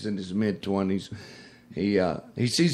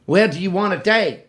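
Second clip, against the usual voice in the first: hitchhiker repeats; 7 semitones higher, 8 dB louder than usual. Retold or imitated. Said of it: "she goes".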